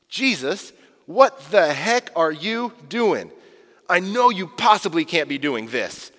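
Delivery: a lightly voiced Peter, slow and incredulous; a hint of Peter pleading in disbelief; Peter protesting. Peter objecting to Jesus washing his feet, mildly incredulous. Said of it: "He says in verse six".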